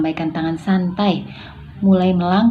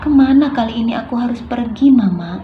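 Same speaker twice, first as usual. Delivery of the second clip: mildly bewildered, raised questioning voice; confused; 4 semitones higher than usual. Shown as a demonstration. Child asking Mama where to go next, confused. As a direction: ask as if lost, pitch lifted. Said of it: "yang kebingungan, yaitu bingung".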